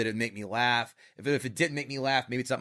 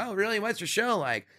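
higher mock-curious comic voice; imitating Norm Macdonald; 7 semitones higher than usual. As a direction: lift the pitch and sound mildly intrigued. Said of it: "He's like".

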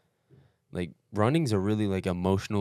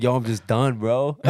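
exasperated; 5 semitones higher, 8 dB louder than usual. Retold or imitated. Retold giving up mid-race.

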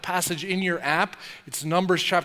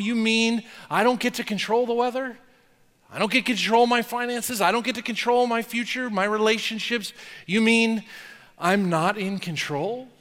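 higher, incredulous questions; mock disbelief; 4 semitones higher than usual. Preacher voices a stunned believer asking God, incredulous. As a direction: sputter the list of things you can't control.

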